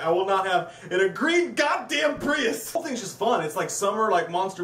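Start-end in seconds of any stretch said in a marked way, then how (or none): 0.0-2.6 slow, shouted mock rant; hammed-up outraged yell. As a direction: bellow it like an outraged tough guy. Quotes character ranting.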